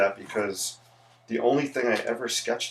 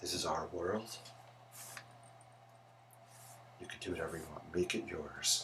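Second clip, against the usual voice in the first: bad, very quiet whispered voice, barely audible; 5 semitones lower, 15 dB quieter than usual. Painting with markers and quoting a saying: bad Bob Ross impersonation. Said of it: "that's a bad Bob Ross impersonation".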